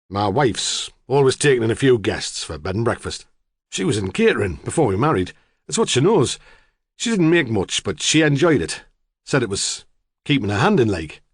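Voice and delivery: a hint of a gruff know-all farmer; blunt farmer. Farmer telling the detective local gossip, blunt.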